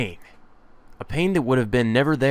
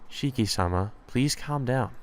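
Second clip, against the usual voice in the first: soft, gently questioning maid; lightly voiced polite maid, concerned; 5 dB quieter than usual. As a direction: lightly play a concerned servant, softly.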